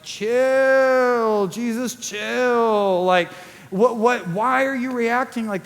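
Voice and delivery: put-on drawn-out, slow teen "chill"; teenager. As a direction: imitate a bored teenager telling Jesus to relax. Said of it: "teenager would say".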